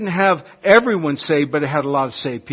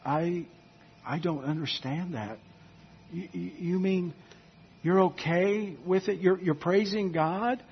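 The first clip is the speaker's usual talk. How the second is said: baffled neighbor; 2 semitones higher, 9 dB quieter than usual. Pretend. Baffled lost neighbor questioning.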